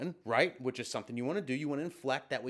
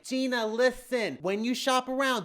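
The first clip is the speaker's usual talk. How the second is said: advising friend; 7 semitones higher, 4 dB louder than usual. Retold or imitated. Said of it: "She may say something like".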